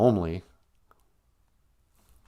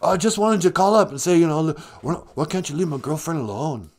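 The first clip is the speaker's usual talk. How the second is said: lightly voiced surfer-dude caller; a hint of a put-on dude voice, raised at first; mild dude-like complaint; Keanu; 3 semitones higher than usual. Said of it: "what can I do for you today, Keanu?".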